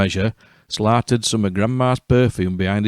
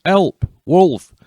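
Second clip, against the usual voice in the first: high, loud cry for help; shouting; 9 semitones higher, 5 dB louder than usual. Acted. Red Riding Hood runs out of the cottage shouting for help, loud and high. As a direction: bellow it like a foghorn. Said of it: "shouting ... with a voice like a foghorn".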